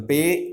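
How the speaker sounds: "Pay" said alone as one beat; isolated syllable. Shown as a demonstration. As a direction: set "Pay" apart as the first syllable. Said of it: "one syllable".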